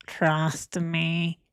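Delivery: breathy mock "Trust me" whisper. Mocking the liar who says trust me, whispered. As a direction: hush it like a con man.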